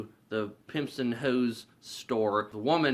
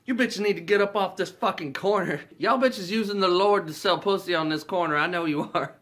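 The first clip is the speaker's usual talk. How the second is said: high, loud hammed-up scolding; mock angry guard; 8 semitones higher, 5 dB louder than usual. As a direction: act out an overzealous guard's tirade. Guard confronts carolers.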